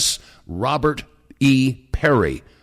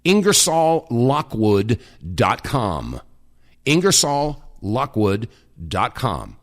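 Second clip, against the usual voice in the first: slow dictation; 2 semitones lower, slower than usual. Shown as a demonstration. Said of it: "if you haven't checked out the website".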